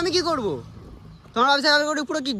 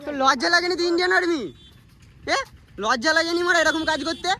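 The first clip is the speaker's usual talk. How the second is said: angry rebuke; 4 semitones higher than usual. Real, not acted. Confronting the man who hit him.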